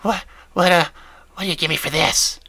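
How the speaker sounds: high whiny hesitant voice; high-pitched whiny voice. Acted. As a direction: stammer it in a high whine. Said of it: "with a high-pitched, whiny voice".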